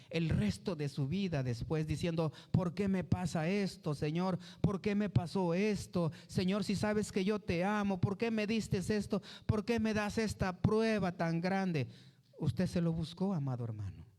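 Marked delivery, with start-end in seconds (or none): 2.5-11.9 voz más aguda, queja llorona imitada; queja lastimera. Retold or imitated. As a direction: imita al creyente que se lamenta ante Dios. Creyente quejándose a Dios. (imitación de una queja aguda y llorona)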